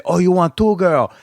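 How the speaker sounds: lightly mimicked broken-English Asian accent; imitating Asian accent. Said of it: "this is the accent that was talking to me on the phone".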